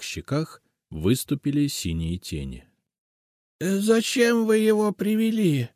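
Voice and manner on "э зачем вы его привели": put-on high, frightened old woman rasp; hoarse voice. A narrator's reading. Frightened old witch asks why they brought him. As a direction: recoil from the house spirit. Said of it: "хриплым голосом спросила она".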